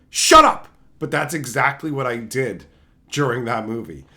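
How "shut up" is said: sudden full-volume yell, much higher; yelled shut up. Retold or imitated. Ranting viewer yelling at a bad movie, loud and high. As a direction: bark it out at the screen. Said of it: "I yell at a movie just going".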